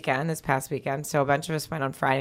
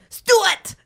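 high, loud call in a muddled Russian-Asian accent; invented angry accent, part Russian, part Asian; angry mixed Russian-Asian accent; 6 dB louder than usual. Shown as a demonstration. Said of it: "Asian and Russian and, like, angry".

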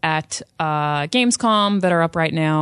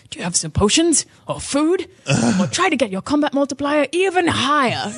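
guildmaster quote; 7 semitones higher than usual. Retold or imitated. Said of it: "guildmaster is always like".

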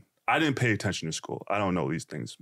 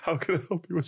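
lightly voiced receptionist, higher pitch; retold receptionist; 7 semitones higher than usual. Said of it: "I go to the receptionist".

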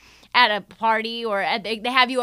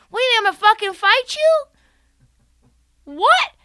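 higher, louder, fast incredulous challenge; retold yell; 11 semitones higher, 6 dB louder, faster than usual. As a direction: snap it back at him, daring him. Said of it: "words that were captured".

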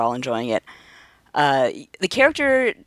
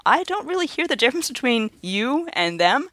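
higher, light mock innocence; retold remark; 10 semitones higher than usual. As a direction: tease him, lightly voiced. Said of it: "I said to him".

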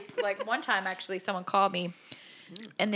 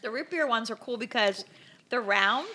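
talking through candy; chewing while talking. Real, not acted. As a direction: mouth full of candy. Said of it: "can hear that crunching in the microphone".

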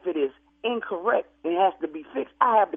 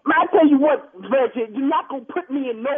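angry outburst; 5 semitones higher, 3 dB louder than usual. Acted. Funeral worker snapping back.

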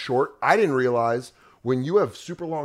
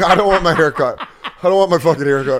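mock whining; 3 semitones higher, 7 dB louder than usual. Guests whining in the joke.

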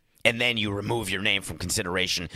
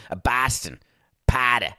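tentative put-on Boston accent; 2 semitones higher, 3 dB louder than usual. Host testing his impression, rough Boston accent. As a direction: feel your way into a Boston accent. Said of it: "when I do a Boston accent".

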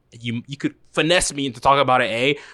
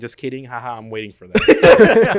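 laughing; 7 dB louder than usual. Real, not acted. Teasing friends about their rating.

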